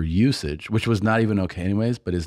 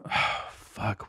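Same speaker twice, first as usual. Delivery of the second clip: whispered, much softer; shocked whisper; 9 dB quieter than usual. Retold or imitated. Hearing the bus was searched, a stunned whisper. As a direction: breathe it out in disbelief.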